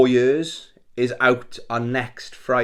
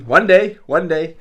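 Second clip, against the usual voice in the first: tearing up; 6 semitones higher, 7 dB louder than usual. Real, not acted. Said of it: "Sorry, I'm tearing up".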